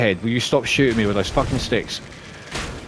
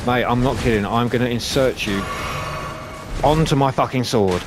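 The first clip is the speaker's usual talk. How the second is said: threatening taunt. Real, not acted. Player threatening enemy mid-fight.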